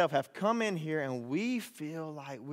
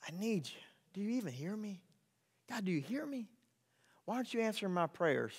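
soft, wounded prayer; hushed pleading; 6 dB quieter, faster than usual. Acted. Believer asking God why, in a hushed plea. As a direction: question God quietly, almost to yourself.

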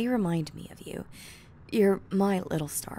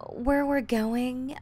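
ominous tease; 6 semitones higher, 4 dB louder, much slower than usual. Acted. Teasing ominous hint on trip.

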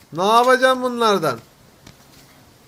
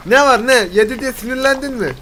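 loud mock challenge; 4 semitones higher, 5 dB louder than usual. Real, not acted. Teasing the eating character on screen.

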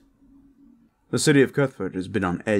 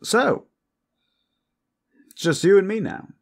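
high, loud, eager seduction; flirtatious Hakan; 9 semitones higher, 6 dB louder than usual. Acted. Hakan alone with the guest proposes a rendezvous, eagerly flirtatious. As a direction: pounce on the chance to flirt, pitched up.

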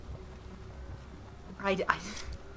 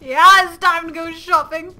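high, loud whoop of words; thrilled, raised-pitch announcement; excited cheer; 9 semitones higher, 14 dB louder than usual. Real, not acted. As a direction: echo it with loud delight. Echoes game shop announcer excitedly.

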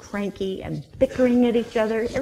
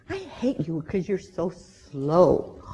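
grumpy lion; 3 semitones lower, slower than usual. Acted. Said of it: "I'm really grumpy".

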